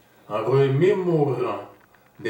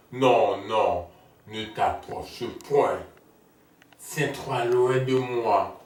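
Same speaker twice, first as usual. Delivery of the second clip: recited rebuff. Acted.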